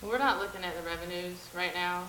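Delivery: off-mic and distant; speaking away from the microphone; turned away from mic. Real, not acted. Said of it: "You still need to talk into the mic".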